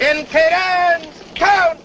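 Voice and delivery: slow, high stretched drill shout; drill command shout. Acted. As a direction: bark the order across the parade ground. Sergeant shouting cadence command.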